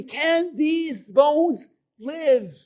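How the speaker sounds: slow solemn question. Retold or imitated. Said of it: "He asked me".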